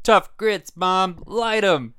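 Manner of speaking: put-on cranky old grandpa yelling; old prospector. Grandpa orders firecrackers lit.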